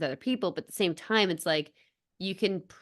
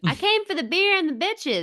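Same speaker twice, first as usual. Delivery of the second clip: put-on higher, louder kid voice; cocky little kid; 10 semitones higher, 4 dB louder than usual. Retelling the kid's line to his cohost, higher kid voice. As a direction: play a brash little kid at the game. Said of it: "the little kid's like".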